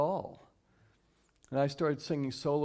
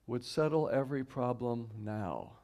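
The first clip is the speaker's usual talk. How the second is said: slow recited quote; 2 semitones lower than usual. Shown as a demonstration. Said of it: "a simple one-liner".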